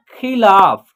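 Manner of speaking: खिलाफ with ला held long; pronunciation demo. Shown as a demonstration. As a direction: model खिलाफ syllable by syllable. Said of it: "इसका उच्चारण होगा". (खिलाफ का खींचकर उच्चारण)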